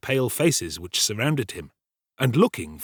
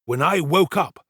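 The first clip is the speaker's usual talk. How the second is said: higher, deliberate pompous servant voice; self-important storyteller Giles; 9 semitones higher, 4 dB louder than usual. Acted. Servant retelling the night's alarm to the kitchen, pompous storytelling. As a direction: hold forth slowly, relishing the tale.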